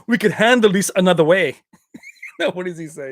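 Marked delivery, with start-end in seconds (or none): 0.1-1.6 lightly voiced action-movie hero with foreign accent; a hint of movie tough guy in the accent; Van Damme impression. Quoting the bar scene to viewers, light Van Damme impression. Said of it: "He's like".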